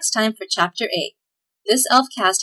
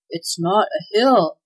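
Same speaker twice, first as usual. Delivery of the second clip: gasped; slower than usual. Acted. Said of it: "gasped Claus".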